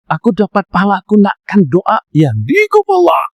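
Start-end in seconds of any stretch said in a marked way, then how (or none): 2.1-3.2 high, slow blessing; raised prayer. Acted. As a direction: lift it up like a prayer. Acting a sneezer's prayer.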